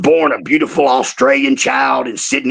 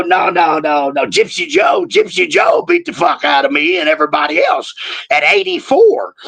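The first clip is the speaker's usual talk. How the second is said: insistent shout; 10 semitones higher than usual. Retold or imitated. Telling Joe he was beaten, in a high shout. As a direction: shout it over him, no no no.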